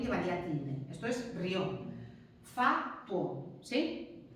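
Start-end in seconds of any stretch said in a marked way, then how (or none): 1.3-1.8 rió as one syllable, stress on the final O. Shown as a demonstration. Teacher confirming the right reading, rió stressed on O. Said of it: "como no lleva tilde en la I". 2.4-3.6 fatuo in two beats, fa and tuo; fatuo split in syllables. Shown as a demonstration. Teacher giving diphthong examples, fatuo split in two. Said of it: "van siempre en la misma sílaba".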